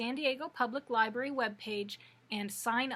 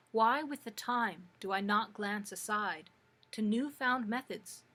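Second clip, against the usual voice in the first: measured verse reading, pausing between lines; poetry reading. Acted. Librarian reads a Shakespeare sonnet to listeners, measured recital. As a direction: recite the sonnet with deliberate phrasing.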